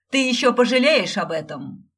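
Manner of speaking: high, loud cracking squeal; mutant. A narrator's reading. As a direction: voice cracking into falsetto. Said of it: "срываясь на петушиный фальцет".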